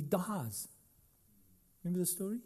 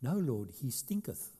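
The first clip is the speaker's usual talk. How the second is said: King James quote; 3 dB quieter than usual. Retold or imitated. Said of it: "the King James says".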